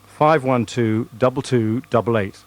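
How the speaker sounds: slow careful number read. Shown as a demonstration. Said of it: "you've given it to me to do".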